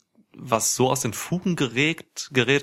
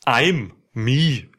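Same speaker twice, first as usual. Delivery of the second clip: backwards speech; 4 dB louder than usual. Shown as a demonstration. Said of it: "Du meinst, du meinst wohl".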